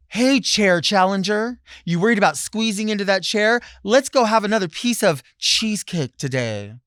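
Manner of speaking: loud, high jeering taunt; sarcastic bully voice calling out; mock taunt. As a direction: needle them like a schoolyard bully. Mock taunting fat people.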